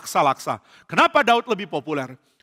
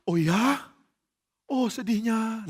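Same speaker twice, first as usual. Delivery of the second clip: slow, soft fake grief; pretend sadness; 4 semitones higher, 4 dB quieter, much slower than usual. Saul practising fake grief over Daud, slow and soft. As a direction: fake the sorrow, drawn out. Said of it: "Saul pura-pura sedih".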